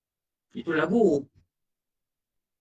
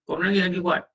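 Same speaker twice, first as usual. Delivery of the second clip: mock scolding husband; 4 semitones higher than usual. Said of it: "Ada orang begitu. Bukan gitu".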